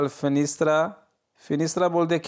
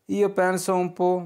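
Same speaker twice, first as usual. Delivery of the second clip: very slow, each syllable clear; slow model sentence; 3 semitones higher, much slower than usual. Shown as a demonstration. Teacher reading the Italian phrase for students, very slow. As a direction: read it out slowly for learners to repeat. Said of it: "मैं थोड़ा सोचता हूँ".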